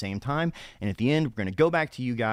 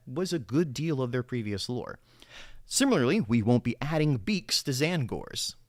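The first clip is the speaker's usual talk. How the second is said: reading it like a newscaster; polished TV news read; news anchor voice. Shown as a demonstration. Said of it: "use my news anchor voice while doing it".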